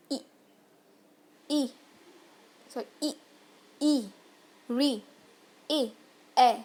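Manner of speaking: each front vowel said alone, slow and clear, with pauses; vowel demo. Shown as a demonstration. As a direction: model each vowel separately. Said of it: "आप उच्चारण करके देखिए". (स्वर का स्पष्ट उच्चारण)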